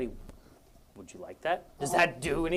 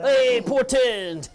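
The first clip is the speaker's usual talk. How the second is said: laughing; 9 semitones higher, 8 dB louder, much slower than usual. Acted. Laughing accent attempt.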